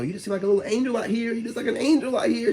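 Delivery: imitating her praise. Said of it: "she kept saying".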